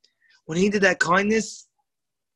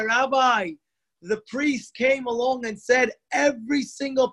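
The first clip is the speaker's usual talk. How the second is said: urgent warning; 6 semitones higher than usual. Retold or imitated. Boy warns rabbi of poison.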